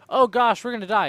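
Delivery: mock panic. Guard who sees the armed enemy, in mock panic. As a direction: fake a frightened cry. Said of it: "It's not like".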